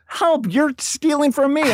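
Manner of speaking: very high, drawn-out mock cry for help; mock yell. Woman accuses comedian of stealing her ticket, high mock yell. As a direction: imitate her yelling, slow and squealing. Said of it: "and she's yelling".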